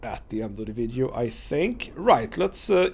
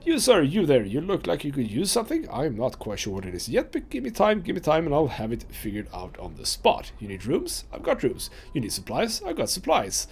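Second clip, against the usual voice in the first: excited barker. Acted. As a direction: hawk your wares like a boisterous trader. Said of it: "too excited about something to talk in a normal tone of voice".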